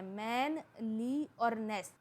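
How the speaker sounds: मैन, ली, नेस each said slowly on its own; separated syllables. Shown as a demonstration. Teacher listing a word's three syllables, slowly separated. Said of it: "तो इसके अंदर तीन syllable हैं".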